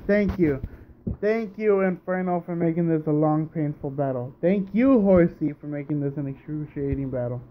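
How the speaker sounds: bitter fake politeness; sarcastic thanks. Real, not acted. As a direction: thank them through gritted teeth. Sarcastically thanking opponents for long battle.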